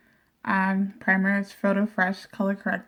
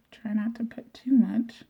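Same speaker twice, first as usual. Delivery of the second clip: whispering; 5 dB quieter than usual. Real, not acted. Whispered aside while applying.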